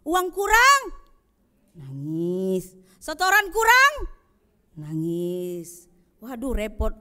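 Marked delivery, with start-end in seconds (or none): 0.1-2.7 mock wail. Mimicking a complainer. 3.0-5.9 mock wail. Mimicking a complainer.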